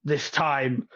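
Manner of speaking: lightly voiced festival host, grand; a hint of a flamboyant host welcoming the crowd; showman host. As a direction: announce like a showman. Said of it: "starts appearing on stage going".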